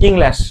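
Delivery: "ইংলিশ" alone, ending in open "-lash"; corrected pronunciation. Shown as a demonstration. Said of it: "উচ্চারণ বলতে হবে". ("ইংলিশ"-কে "ইংল্যাশ" উচ্চারণ)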